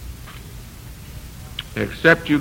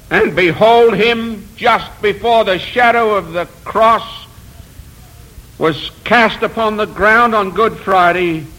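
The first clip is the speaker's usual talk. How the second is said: fervent preaching; 4 semitones higher than usual. Real, not acted. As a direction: preach it with rising conviction. Preaches with raised fervour.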